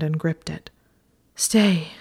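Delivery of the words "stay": a single pleading word between pants; panting. A narrator's reading. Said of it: "panting as she slid her legs".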